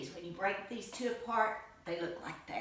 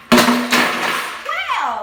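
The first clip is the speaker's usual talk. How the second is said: surprised exclamation; 20 dB louder than usual. Real, not acted. Startled by a loud noise.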